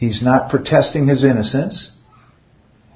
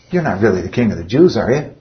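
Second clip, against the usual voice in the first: cynical; faster than usual. Retold or imitated. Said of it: "He's being cynical".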